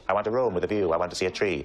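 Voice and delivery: lightly voiced film villain; a hint of measured Welsh actor; Anthony Hopkins. Friend showing off his impressions, lightly voiced actor. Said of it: "Anthony Hopkins".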